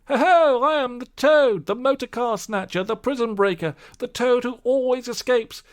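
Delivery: high, loud swaggering boast; boastful shout. Acted. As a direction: crow about yourself with glee. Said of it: "he shouted recklessly".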